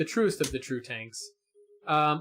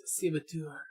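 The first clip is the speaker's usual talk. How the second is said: put-on French accent; 3 semitones higher, 4 dB quieter than usual. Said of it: "Gotta throw some French spin on that".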